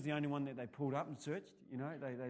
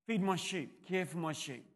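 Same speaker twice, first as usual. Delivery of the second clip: Jesus' command; 3 semitones higher than usual. Acted. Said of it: "Three times Jesus challenged".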